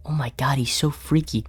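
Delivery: hushed, breathless whisper; scared whisper. Real, not acted. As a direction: whisper in fear. Unvoiced whisper.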